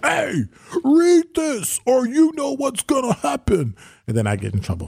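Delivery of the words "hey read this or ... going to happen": shrill, very high, drawn-out hollering. Describing being pushed around, retelling how DZ hollers in the speaker's ear: imitating DZ hollering. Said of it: "DZ be hollering at me in my ear".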